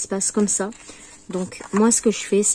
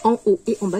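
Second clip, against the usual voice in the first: talking through hiccups; words broken by small hiccups; faster than usual. Real, not acted. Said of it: "j'ai le hoquet".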